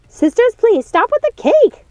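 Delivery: high, slow scolding; weary older sister. Acted. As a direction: rein in silly sisters, slowly. Lucinda scolding her sisters.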